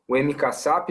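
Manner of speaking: ordinary talk, nothing marked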